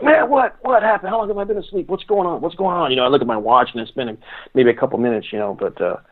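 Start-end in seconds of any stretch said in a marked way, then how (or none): 0.0-2.9 retold jolt awake, much higher and bewildered; startled waking confusion. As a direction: play someone jerking awake, disoriented.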